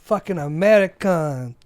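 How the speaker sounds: high, loud, slow mock French accent. French store clerk throwing out a wet American, French accent. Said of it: "That's your French accent".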